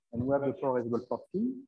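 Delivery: off-mic, distant and faint; from another room. Real, not acted. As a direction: far from the microphone. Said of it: "can't hear you from here".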